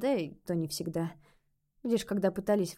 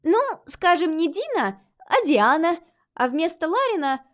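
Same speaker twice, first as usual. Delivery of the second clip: put-on child ghost voice; 8 semitones higher, 8 dB louder, slower than usual. A narrator's reading. Ghost girl suggesting.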